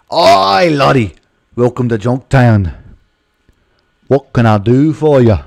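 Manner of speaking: a friendly Scottish innkeeper welcoming the traveller, drawn out; Scottish accent. Acted. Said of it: "What if he's like a Scottish or something?".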